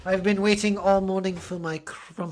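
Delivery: posh British. Acted. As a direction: order the servant about in posh British. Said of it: "Ragnar has a posh British accent".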